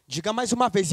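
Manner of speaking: ordinary delivery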